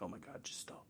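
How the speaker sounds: soft, low muttered exasperation; weary retort. Retold or imitated. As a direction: drop the voice right down, fed up. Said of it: "and I'm like".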